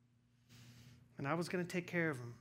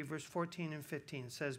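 normal talking voice

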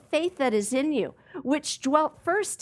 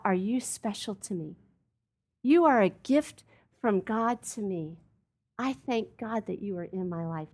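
tender; 2 semitones lower, 3 dB quieter than usual. Retold or imitated. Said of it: "put their arm around you and to say".

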